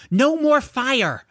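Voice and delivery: slow, high, loud plea; high strained call to stop; pleading shout. Acted. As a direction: drag the words out, begging the dragon. George pulls at dragon's reins.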